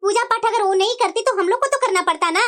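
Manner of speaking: put-on a weary old lady sighing at a quarrel.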